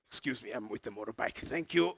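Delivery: softly slipping past; murmured polite excuse while squeezing through; acted nonchalant politeness; casual bar-goer. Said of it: "acting like they are at a bar".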